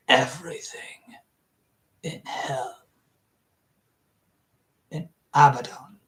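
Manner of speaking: ominous whisper of a stranger; hushed reply. Acted. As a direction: whisper the dread answer.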